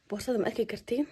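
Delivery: hushed whisper to camera. Real, not acted. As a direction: whisper so he can't hear. Secret plan before the prank.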